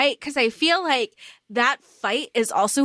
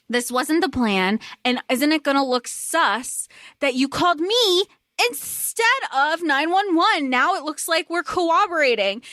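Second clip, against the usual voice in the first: pitched-up, lightly acted telling-off; mock exasperated scolding; 4 semitones higher than usual. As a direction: imitate her berating him over the phone. Helen berates Ernest by phone, retold.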